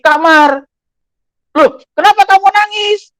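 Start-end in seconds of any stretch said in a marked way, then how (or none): 1.5-3.1 higher, louder startled asking; surprised question. Retold or imitated. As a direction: ask the child, caught off guard. Retelling asking crying child.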